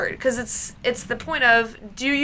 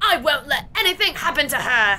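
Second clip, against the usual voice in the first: put-on British-accented voice; 3 semitones higher than usual. During a game session, the speaker voices a character in a British accent. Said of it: "I never get to do British accents".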